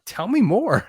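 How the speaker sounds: high-pitched, keen curiosity; played-up friendly interest; eagerly leaning in. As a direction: act out leaning in to befriend someone. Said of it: "just leaned into him".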